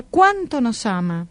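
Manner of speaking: "cuánto" drawn out and leaned on, slowly; stress on cuánto. Retold or imitated. Telling how the boy stressed God's love, slow weight on "cuánto". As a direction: land hard on "cuánto", then ease off "nos ama". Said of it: "y recalcaba la palabra".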